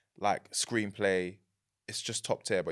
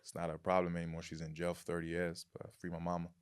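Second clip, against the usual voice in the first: deadpan Tennessee American accent, kept quiet; 6 dB quieter than usual. Shown as a demonstration. Guest improvising a jailed mother's story, in an American accent. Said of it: "Can you do an American accent".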